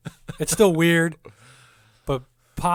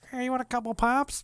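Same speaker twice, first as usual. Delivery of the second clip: mock Iowan host; 11 semitones higher than usual. Retold Iowa locals.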